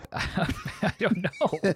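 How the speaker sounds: laughing through the words, slowly; helpless chuckle as you answer. Real, not acted. Suspect laughs at question about wife.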